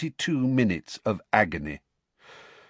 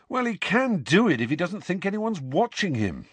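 Fred voice; 9 semitones higher than usual. A narrator's reading. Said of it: "said Fred".

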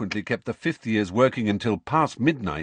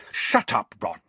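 angry. Acted. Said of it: "said Hermione angrily".

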